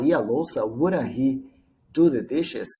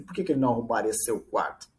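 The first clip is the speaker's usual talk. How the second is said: newsreader formality; 2 semitones lower, 3 dB quieter, much faster than usual. Retold or imitated. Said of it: "o jornalista fala assim".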